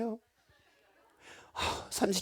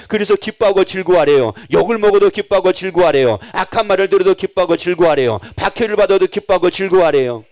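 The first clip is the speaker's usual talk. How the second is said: loud repeated hammering refrain; forceful preaching; 6 dB louder than usual. Acted. Preacher to congregation, loud insistent refrain. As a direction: drive each line home, louder.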